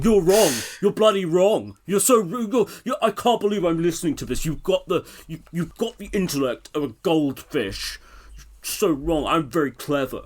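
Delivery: high, loud mock rant of a smug know-it-all; hammed-up furious radio host; ranting James O'Brien. Mocking James O'Brien, hammed-up ranting know-it-all. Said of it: "We'd just be going".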